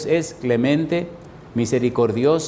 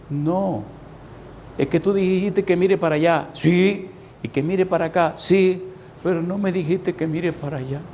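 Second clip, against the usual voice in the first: put-on a little boy's voice, pitched higher and a bit innocent; 4 semitones higher than usual. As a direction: lightly voice the small son answering his dad. Little boy answers his father. (niño pequeño respondiendo, voz algo más aguda)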